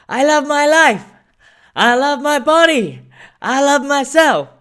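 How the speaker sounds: high, loud hallway chant; kids shouting. Retold or imitated. Imitating kids chanting affirmations in the school hallway. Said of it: "kids in the hallway shouting".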